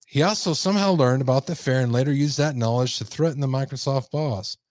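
emphatic news-story read; projected article narration. Acted. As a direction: read out the report like a newscaster.

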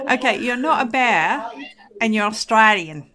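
put-on a light, barely-there Australian accent; mock Australian accent. Host joking with co-host in faint Australian accent. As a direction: tease the co-host with a hint of Australian. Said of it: "That was my Australian accent".

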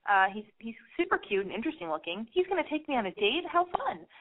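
mock-giddy thoughts with high peaks; lightly voiced giddy excitement; giddy inner thoughts. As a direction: swoon in your head over the cute singer. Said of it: "I get all excited".

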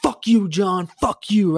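high-pitched mock teenage rage; re-enacted pissed-off yelling. Teenager cursing his winning buddy, mock pissed off. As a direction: act out a half-volume gamer tantrum. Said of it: "I'm getting so pissed".

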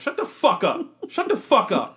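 high, loud playful yell; mock outraged shout. Friend mocks her Hufflepuff hoodie, she shouts back in mock outrage. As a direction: blast him for teasing, half joking.

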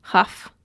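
Chaf said with a throaty h; Hebrew letter chaf. Shown as a demonstration. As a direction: say Chaf with a rasp at the back. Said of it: "Chaf or chet?".

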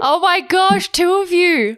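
high, loud excited squeal. Real, not acted. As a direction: gush with delight. Excited reaction to neuroscientist husband.

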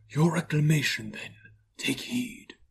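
a hint of otherworldly command; warning ghost. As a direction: give a solemn spirit's warning, easing off at the end. Narrator voices the Ghost warning Scrooge.

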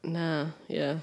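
unvoiced soft reply; whispering. Real, not acted. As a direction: whisper it under breath. Quiet aside.

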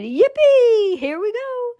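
high whooping yell of delight; excited shout. Acted. Grandpa whooping with joy as the lift drops. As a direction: cheer it like a thrill ride. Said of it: "Grandpa Joe shouted".

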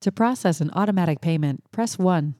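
measured recorded-menu delivery; polite automated payment line; automated phone voice. Shown as a demonstration. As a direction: read it like a phone system prompt. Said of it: "likes my American voice for their voicemail".

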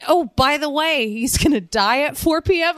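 mock outrage at the plan; incredulous. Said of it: "And I was like".

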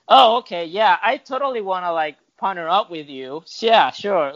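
sarcastic, high-pitched fake enthusiasm; mock agreement. Answering a lazy newcomer who wants to partner up, sarcastic. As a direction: pretend to be keen, dripping doubt.

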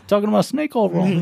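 a playful, half-hearted Walken; Christopher Walken impression. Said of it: "Who can do the best Walken in here?".

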